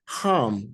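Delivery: "ham" with a short ah, closed on m; short-vowel "ham", lips closing on the m; joined syllable. Shown as a demonstration. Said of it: "now you join it together".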